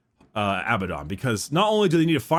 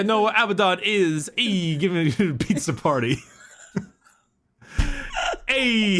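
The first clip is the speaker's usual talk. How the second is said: a hint of a mock Italian tough guy, higher; playful put-on Italian voice, laughing into it; lightly Italian; 7 semitones higher than usual. Host redoing the psyker's line as an Italian guy. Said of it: "Was that Italian?".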